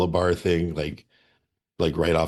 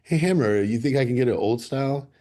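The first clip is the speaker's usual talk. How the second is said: cheerful ordering; 6 semitones higher than usual. Retold or imitated. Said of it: "I'm like".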